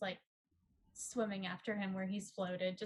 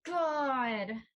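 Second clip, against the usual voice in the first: excited shout; 5 semitones higher, 10 dB louder than usual. Real, not acted. Player reacts to dice roll.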